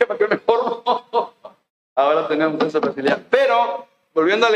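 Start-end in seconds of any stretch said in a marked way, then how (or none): 0.0-1.3 chuckling as you retell it; amused laughing. Retold or imitated. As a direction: laugh into the question. Amused retelling of skipping the queue.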